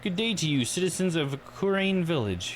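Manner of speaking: high-pitched campaign greeting; pompous politician. Acted. Politician greeting the citizens of Kurain, high and declaiming. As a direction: hail the villagers like a candidate.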